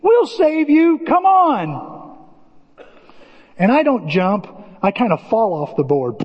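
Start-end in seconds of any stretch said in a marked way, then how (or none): 0.0-2.0 put-on high little child promising; seven-year-old voice. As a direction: sound like a tiny kid in the water. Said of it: "seven-year-old say".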